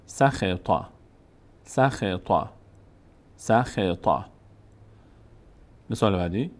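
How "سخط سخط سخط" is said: "سخط" run together as sa-khe-ta; joined up. Shown as a demonstration. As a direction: blend "سخط" into one word. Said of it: "بعد پشت سر هم". (پشت سر هم)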